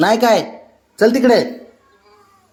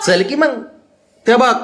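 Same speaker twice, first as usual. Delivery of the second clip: much higher, louder sing-song coaxing of a pet; coaxing pet talk; 10 semitones higher, 4 dB louder than usual. Real, not acted. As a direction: coax the sulking pet in a high voice.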